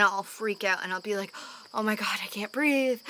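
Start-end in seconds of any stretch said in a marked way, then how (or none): 1.7-3.0 breathless frightened whisper, as if air is running out; panicked whisper. Retold or imitated. Recalling a panic attack to viewers, a frightened whisper. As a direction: whisper it like you can't get a breath. Retelling panic after a meal.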